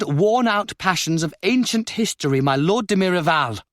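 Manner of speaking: a noblewoman's stern decree to quarrelling dukes; stern Countess. A narrator's reading. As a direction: rule the room, cold and final. Countess addresses the court.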